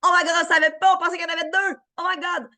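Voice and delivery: hammed-up astonishment; fake surprise. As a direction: overact being amazed, far up in pitch.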